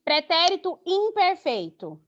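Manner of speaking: usual speaking voice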